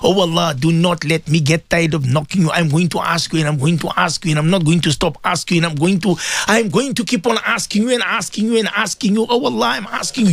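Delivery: earnest pleading prayer, rising in pitch. Acted. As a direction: beg Allah over and over, building. Prays aloud to Allah.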